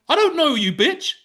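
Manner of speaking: high, loud mock retort; retold shouting back. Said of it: "And I went".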